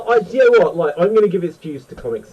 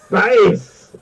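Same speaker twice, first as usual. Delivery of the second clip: louder, higher mock-dramatic exclamation; mimicked villain cry; 5 semitones higher, 5 dB louder than usual. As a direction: echo it like a hammy movie line. Echoing the Tim Curry line.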